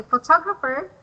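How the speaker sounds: "photographer" said pho-TOG-rapher; stress on second syllable. Shown as a demonstration. Teacher contrasting it with photo, second-syllable stress on "photographer". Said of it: "is at the second syllables".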